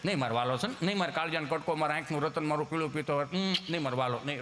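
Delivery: put-on mother soothing child. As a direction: coo gently to a crying son. Mother soothing crying boy.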